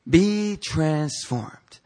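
very slow, drawn-out command. Acted. Preacher voicing God's command from the passage, commanding. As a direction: stretch each word into a solemn order. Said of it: "is commanding us".

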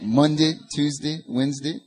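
weekdays ending in a Southern "dee"; Southern accent. Shown as a demonstration. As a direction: say the day names in a Southern accent. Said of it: "Southern accent".

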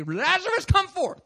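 high, loud call to the tomb; commanding summons. Pretend. Playing Jesus raising Lazarus, commanding call. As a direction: call it out like a miracle worker.

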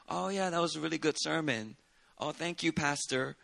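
quiet, lukewarm compliment; a churchgoer giving a weak compliment after a boring sermon, quiet; faint congregant praise. Retold or imitated. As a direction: mutter a polite, half-hearted compliment. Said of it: "When somebody says that in a certain tone".

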